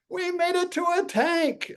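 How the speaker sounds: very high mock squeal of victory; gleeful celebration. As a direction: cheer it in a squeaky falsetto. Celebrating on the freeway shoulder.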